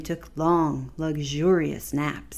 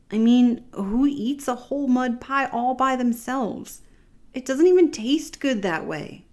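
indignant whine; 6 semitones higher than usual. Acted. Baby Capybara complaining.

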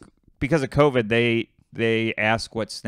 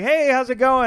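high, bright put-on host greeting; a badly done Corden voice, pitched way up; imitating Corden; 12 semitones higher, 5 dB louder than usual. Telling a friend how Corden walked in, mock voice. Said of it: "We're both doing a horrible job".

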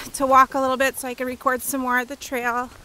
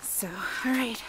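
whispering; 8 dB quieter than usual. Real, not acted. Aside while filming a walk.

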